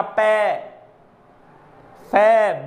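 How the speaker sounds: ਪੈ then ਫੈ, each spoken alone with a pause between; name ਪੈ, ਫੈ one by one as sample sounds; listing syllables aloud. Shown as a demonstration. Teacher running through the lip sounds, one at a time. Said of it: "ਬੋਲ ਕੇ ਵੇਖ ਰਹੇ ਹੋ ਤੁਸੀਂ".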